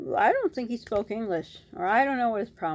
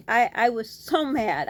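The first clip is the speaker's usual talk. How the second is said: heated; 3 semitones higher, 5 dB louder, slower than usual. Real, not acted. Retelling anger at driver.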